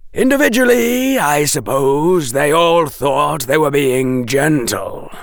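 a professor's dry disapproval; crisp disapproval. Acted. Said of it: "his voice crisp with disapproval".

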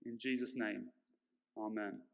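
echoey voice in a large hall; big hall echo. Real, not acted. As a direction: speak into a booming room. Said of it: "I sound a bit echoey up here".

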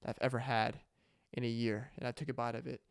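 quietly moved, holding back tears; real emotion. Real, not acted. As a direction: let the memory catch in your throat. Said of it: "I'm getting emotional".

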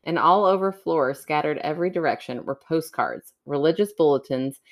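story narration. Acted. Reads a creepy story aloud.

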